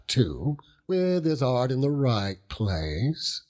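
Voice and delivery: a hint of a rough old fisherman, chuckling as he talks; lightly voiced seaman, proud and laughing; Mr. Peggotty. Proud uncle telling gentlemen about Emily, lightly voiced fisherman.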